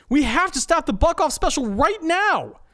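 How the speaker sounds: high, loud alarm; urgent declaration. Acted. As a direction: stop everything now. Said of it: "Steve declares".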